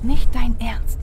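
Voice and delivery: loud disbelief. Acted. Colleague objects to plan.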